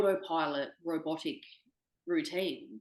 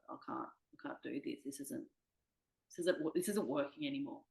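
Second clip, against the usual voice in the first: defeated breakdown; 5 dB quieter than usual. Retold or imitated. Breaking down on phone call.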